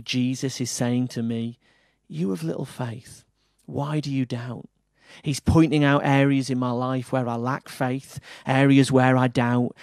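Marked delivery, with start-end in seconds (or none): 2.1-4.7 gentle and loving. Shown as a demonstration. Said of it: "in a really gentle and loving way".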